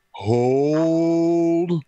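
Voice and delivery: high, commanding call to halt; Aaron Mithrish voice. Retold or imitated. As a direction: freeze the whole field with one word. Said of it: "in Aaron Mithrish's voice".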